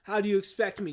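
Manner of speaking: loud, indignant villain; hammed-up affronted villain; Destro. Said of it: "He's like".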